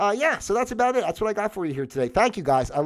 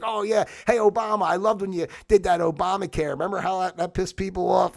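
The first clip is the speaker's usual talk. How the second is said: mocking leaders; 5 semitones higher than usual. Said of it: "And then".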